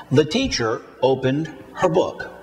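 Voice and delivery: beats on "teacher", "opened", "book", with "The" and "her" rushed; rushed structure words. Shown as a demonstration. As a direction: rush "The" and "her" into the stressed words. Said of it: "Repeat after me".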